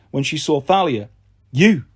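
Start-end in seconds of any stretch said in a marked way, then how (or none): 1.5-1.8 distaste. Acted. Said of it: "she said with distaste".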